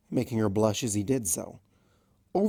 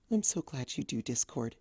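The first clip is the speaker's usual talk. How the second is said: happily; 2 semitones higher, 8 dB quieter than usual. A narrator's reading. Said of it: "she said happily".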